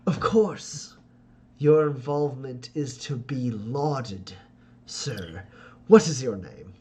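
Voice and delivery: gracious and welcoming, with a hint of put-on charm; Ferdinand's courtly voice.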